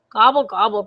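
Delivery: understated grumbling turkey; mild grumble. Acted. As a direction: grumble the gobbles lightly. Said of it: "grumbled Turkey".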